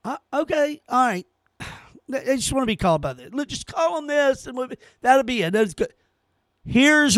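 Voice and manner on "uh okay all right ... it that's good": softer, placating mock voice of people giving in; mock appeasing. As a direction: sigh and cave in weakly, mockingly. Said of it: "we said".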